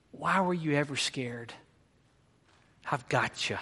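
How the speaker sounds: put-on hushed, tender dad to a child; loving reassurance. Dad hugging the child he caught, reassuring. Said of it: "as the loving one, ready to receive".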